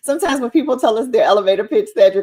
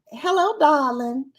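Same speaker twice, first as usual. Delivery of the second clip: drawn-out, raised Southern Belle greeting; 5 semitones higher, slower than usual. Retold or imitated. Mother imitating her Southern Belle daughter, Southern drawl. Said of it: "she's not country, but she's a Southern Belle".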